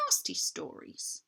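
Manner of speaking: slow breathy whisper. A narrator's reading. Queen whispering to Edmund about the fawns. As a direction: drop to a sly whisper.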